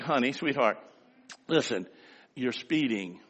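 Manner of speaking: wife coaxing her speeding husband, lightly sweet. Retold or imitated. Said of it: "they say things, you know, to you like".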